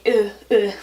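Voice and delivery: mock choked little grunts; imitated choked-up noise. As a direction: act out getting choked up. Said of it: "I get, like, all".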